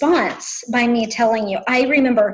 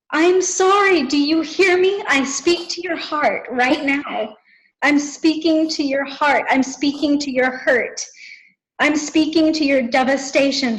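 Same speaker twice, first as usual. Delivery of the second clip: higher, earnest pleading, gradually settling; imitated tearful plea; 3 semitones higher than usual. Imitating a crying friend begging forgiveness, impassioned plea. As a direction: plead with a mild wail at first. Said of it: "yelling into the phone".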